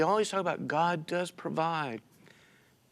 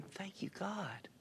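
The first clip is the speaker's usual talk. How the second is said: slow, soft whispered prayer of thanks; hushed thanks; 6 semitones higher, 15 dB quieter, slower than usual. Retold or imitated. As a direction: breathe it out slowly like a quiet prayer. Quiet thanks to God in awe.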